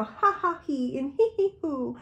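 a hammed-up tipsy giggle imitating gossipers; mock gossip laughter. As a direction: titter like gossiping couples at dinner. Mocking gossiping couples over wine.

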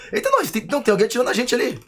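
high fast panicked blurt; panicking gamer. Real, not acted. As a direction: rush it out in alarm. Being shot at in game. (gamer em pânico)

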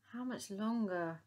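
slow, whiny complaint; mild weary moan. Acted. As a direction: drag it out like a bored moan. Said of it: "moaned Dotty".

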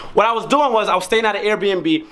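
winded, breathing hard. Real, not acted. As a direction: speak while short of breath. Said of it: "I'm out of breath as fuck".

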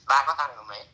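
normal talking voice

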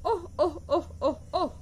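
ओह said again and again, each with a new tune; varied oh sounds. Acted. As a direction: try ओह in several different inflections. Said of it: "uttered the word over and over again, giving it a different inflection each time". (ओह को हर बार अलग लहजे में)

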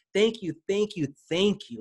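gushing, over-the-top thank yous; exaggerated thanks. Shown as a demonstration. Author thanking readers for downloading, effusive. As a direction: pour on the gratitude, add some sauce. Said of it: "I kind of exaggerated".

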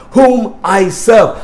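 shouted Whom I serve; preached shout. Real, not acted. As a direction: bellow it to the back row. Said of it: "repeated verse, shouted".

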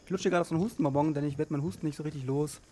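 talking around a cough drop; words round a lozenge in the mouth; sucking a hard candy. Real, not acted. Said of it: "Ich hab einen Hustenbonbon im Mund".

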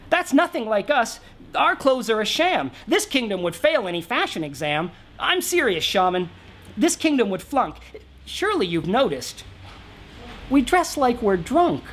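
high, whiny complaint, pleading to be understood; sulky royal moaning about his kingdom; griping king. Acted. King griping to the shaman about Spud fashion, whiny.

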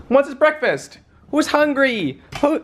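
high sing-song voice for the dog; high doggy talk. Real, not acted. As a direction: coo it at the hungry puppy. Baby talk to puppy.

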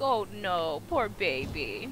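cooing at the crying dog, lightly voiced. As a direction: coo it to a puppy. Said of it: "I was like".

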